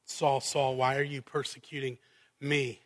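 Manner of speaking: soft, low, gentle calling of the name; tender voice of the Lord gently pleading; tender plea. Acted. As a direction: plead with him softly, grieving. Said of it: "the tender mercy of the Lord".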